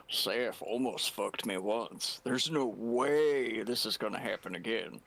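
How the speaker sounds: heavy sarcasm. Acted. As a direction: say it as if tempting fate, sarcastically. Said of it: "I say with heavy sarcasm".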